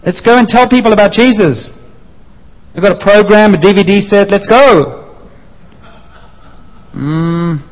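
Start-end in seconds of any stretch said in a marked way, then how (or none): 0.0-5.0 eager urging. Acted.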